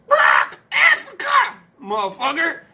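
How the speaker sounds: very high, loud parrot squawk. Acted. Joke's parrot answering the bartender, loud high squawk. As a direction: screech it slowly like a parrot, then ease down. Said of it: "The parrot goes".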